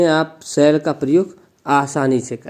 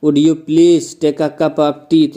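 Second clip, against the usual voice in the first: polite request; much slower than usual. Shown as a demonstration. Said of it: "कोई अगर आपसे ऐसे बोल दे".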